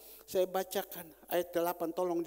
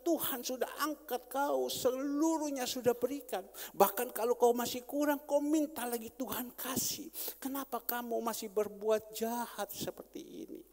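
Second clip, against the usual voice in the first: rebuking prophet; 5 semitones higher than usual. Retold or imitated. Nathan rebukes David.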